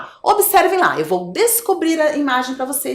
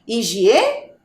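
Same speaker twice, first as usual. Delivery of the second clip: "Higiene" with a long gap before "ne"; syllable by syllable. Shown as a demonstration. Teacher asking for the missing syllable, syllable by syllable. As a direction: sound out "Higiene", lifting and pausing before the end. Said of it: "Qual é a sílaba que está faltando".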